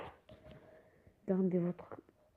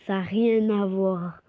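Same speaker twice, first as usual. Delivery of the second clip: laughing it out, slow and louder; 6 dB louder than usual. Real, not acted. Amused by a mismatched picture, laughing. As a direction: laugh through the words.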